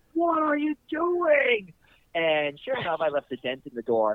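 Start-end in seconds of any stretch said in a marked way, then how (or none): 0.2-1.8 shrieking, screaming yell, very high pitch. Recounting a filmed stunt, the speaker quotes the Toyota guy, imitating a man screaming. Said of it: "the Toyota guy is screaming his head off".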